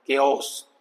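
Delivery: "केओस" with A and O as distinct sounds; separate vowel sounds. Shown as a demonstration. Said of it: "ये sound है एक ही".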